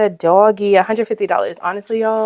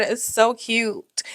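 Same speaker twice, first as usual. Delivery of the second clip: whispered gush; 3 semitones higher, 8 dB quieter, much slower than usual. Real, not acted. Gushing over cute page.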